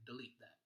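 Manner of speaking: delete said quickly as duh-LEET; shortened first syllable. Shown as a demonstration. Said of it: "kinda shorten up that first syllable".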